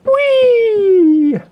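very high gleeful squeal; excited squeal. Acted. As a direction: squeal it like a kid. Game jingle.

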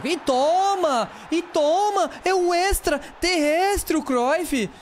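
drawn-out triumphant scream at the screen; goal celebration shout. Real, not acted. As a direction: yell it like you just scored.

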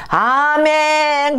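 long, high, stretched amen; joyful drawn-out amen. Retold or imitated. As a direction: sing out the amen slowly. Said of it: "그러고 온 거예요".

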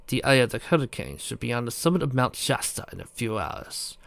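soft, smug aristocrat; smug prince. Acted. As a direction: purr it like a villain prince. Prince character voiced low.

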